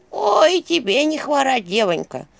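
put-on high, creaky old granny greeting; old woman's voice. A narrator's reading. Old woman greeting Vasilisa from the porch, high granny voice. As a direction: sing it out like a village granny. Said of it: "старушечий голос".

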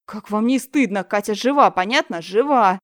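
loud indignant scolding; angry teacher. Acted. Teacher scolding girls about Katya, loud and indignant. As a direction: shame them firmly.

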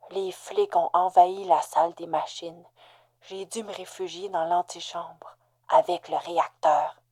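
strained, unvoiced whisper. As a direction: hide and breathe the words out. Hiding with reactor, dying man.

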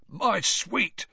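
high, cooing caretaker; Filch's fond voice. A narrator's reading. Filch cooing to his cat, high and fond. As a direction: coo to the cat like a sly old man.

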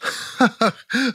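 high, affected laugh; theatrical mock laughter; forced laugh. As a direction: fake a big laugh. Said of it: "деланно расхохоталась".

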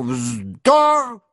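high explosive yell; furious shout. A narrator's reading. Denisov bursting out at Rostov in fury. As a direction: burst out with veins swelling. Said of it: "закричал он так, что жилы".

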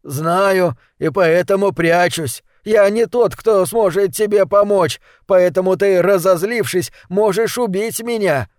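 high, scared, rising panic; frightened pleading. Acted. Frightened mage hiding under table.

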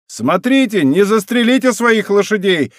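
high, loud taunt; mocking shout. A narrator's reading. D'Artagnan jeering at his pursuers, shouting high. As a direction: call back tauntingly at full voice. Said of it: "закричал им Д'Артаньян с хохотом".

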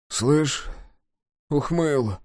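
weak, hoarse attempt to get attention; hoarse call. A narrator's reading. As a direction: call his name with a rasp. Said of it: "сипло позвал он".

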